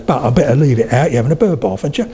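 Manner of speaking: East London, every T dropped; East London accent. Shown as a demonstration. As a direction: swallow the T's like an East Londoner. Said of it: "They can't do that".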